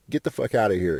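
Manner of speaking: lightly imitated Mexican accent; a hint of a Mexican woman's accent. Girl telling off a guy bothering her friend, light Mexican accent. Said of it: "in a Mexican voice".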